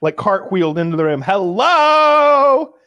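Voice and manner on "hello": high slow flamboyant greeting; sashay in with a flourish; flamboyant gay man. Pretend. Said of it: "what if he nanced into the room".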